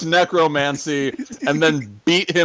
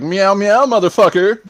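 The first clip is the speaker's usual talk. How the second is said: put-on higher, louder cutesy cat-girl meow; mock French maid meow; 4 semitones higher, 5 dB louder than usual. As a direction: purr it like a saucy maid, then swear. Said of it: "French maid with cat ears and be like".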